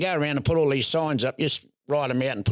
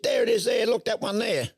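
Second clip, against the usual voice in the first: 1 eager pointing; 8 semitones higher than usual. Retold or imitated. Woman points out injured mouse.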